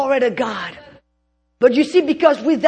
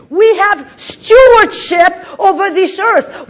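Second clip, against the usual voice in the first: louder, slower, stewardship stressed; slow emphatic shout; 5 semitones higher, 3 dB louder than usual. Shown as a demonstration. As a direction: preach it out loud and slow.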